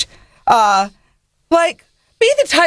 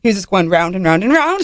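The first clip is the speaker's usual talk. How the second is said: put-on British accent. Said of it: "Do some more".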